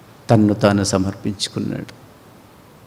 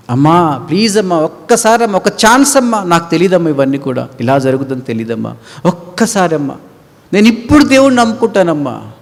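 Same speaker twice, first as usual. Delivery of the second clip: lightly acted begging, a bit higher; pleading child; 5 semitones higher than usual. Left-behind child begging mother for another chance, mild pleading. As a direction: beg mother for one more chance.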